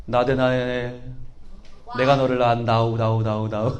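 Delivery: very low, soft voice with playful echo; deep echoing voice. Acted. Jesus speaking to Nathanael in a very low echoing voice. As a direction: speak as a solemn deep voice, then echo the last word.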